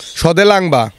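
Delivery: word said in reverse; backwards speech. Shown as a demonstration. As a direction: read the word backwards, syllable by syllable. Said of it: "এই লিখে রেখেছে".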